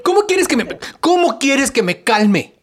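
high, indignant protest; jealous outburst. Acted. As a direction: burst out in jealous disbelief. Jealous boyfriend argues at party. (reclamo celoso e indignado)

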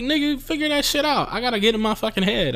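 very high-pitched, hammed-up exasperation; exasperated retort. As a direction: squeal the retort in comic frustration. Exasperated reply to parking question.

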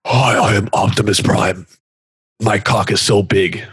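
lightly booming robot leader voice; Optimus Prime. Acted. Transformer introducing himself, half-hearted booming voice. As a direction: attempt a boomy heroic robot. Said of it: "Optimus's voice is like, you have to boom it through".

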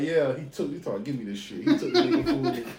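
giggling through the words; laughing. Retold or imitated. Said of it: "And she like".

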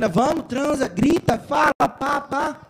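egging her on. Retold or imitated. Man retelling how he cheered the girl on from next door, egging on. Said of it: "eu tava lá incentivando a menina".

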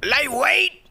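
high hype gym yell; bodybuilder hype yell. Retold or imitated. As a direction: bellow it like a bodybuilder. Bodybuilder catchphrase shout.

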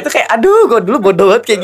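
high loud aduh; exasperated. Real, not acted. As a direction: groan at past self. Embarrassed exclamation.

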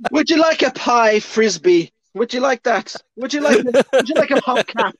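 high, loud mock-sweet hostess offering a pie; a hammed-up housewife pushing her pie. Friend mocks the heroine offering her flat pie, high and sweet.

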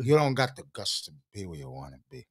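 put-on low Scarface accent, Cuban gangster swagger. Host retells his party bit in a low Scarface accent. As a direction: growl it low like Tony Montana in Scarface. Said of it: "getting good at the Scarface accent".

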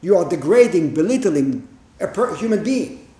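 acted affront, leaning hard on the first words; indignant. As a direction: voice an offended onlooker's protest. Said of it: "we think".

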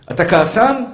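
normal talking voice

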